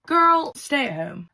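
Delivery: loud, high, slow rebuke; exasperated scolding. Real, not acted. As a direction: draw out each word in exasperation. Scolding the sister after retelling.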